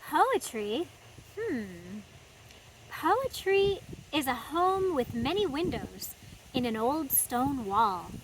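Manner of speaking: lightly voiced thoughtful chipmunk; a hint of a pondering little critter. Chipmunk musing to Daniel, lightly voiced thinking hum.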